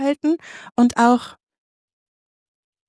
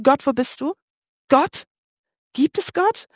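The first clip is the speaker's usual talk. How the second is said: higher, searching call; 4 semitones higher than usual. Retold or imitated. Preacher voicing a desperate call to God, higher. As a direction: call out into the void. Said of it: "das schon mal losgerufen".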